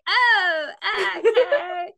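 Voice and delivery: high, loud unimpressed "oh, okay". Retold or imitated. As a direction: brush it off, unimpressed. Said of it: "And I'd be like".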